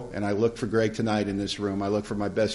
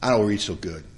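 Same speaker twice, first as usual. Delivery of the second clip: low, softer hesitant admission; sheepish; 4 semitones lower, 6 dB quieter than usual. Retold or imitated. Newcomer confessing to his sponsor, sheepish. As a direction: own up haltingly, voice dropped. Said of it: "Donnie got sheepish and looked at his feet".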